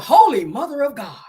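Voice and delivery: hammed-up genteel gasp; white guy cussing. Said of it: "White people".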